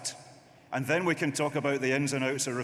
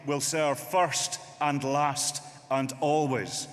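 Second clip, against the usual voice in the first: rallying shout; 4 dB louder, slower than usual. Real, not acted. Rallying conference crowd.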